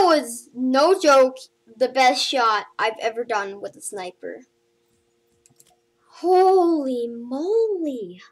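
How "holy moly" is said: stunned awe. Real, not acted. Stunned after the great sniper shot.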